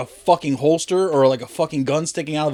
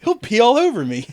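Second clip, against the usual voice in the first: put-on high whiny kid voice; 8 semitones higher than usual. Quoting movie line.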